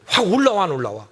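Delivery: heated preacher's jab; excited rhetorical jab. Acted. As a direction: fling it at them like a challenge. Rhetorical question to congregation.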